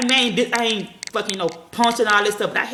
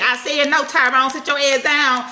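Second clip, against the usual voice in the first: slow, louder command; stern parent yell; 6 semitones higher, 4 dB louder than usual. Shown as a demonstration. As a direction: order the child to sit.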